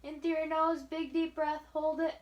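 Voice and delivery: upbeat final breathing cue; encouraging push. Shown as a demonstration. Last one.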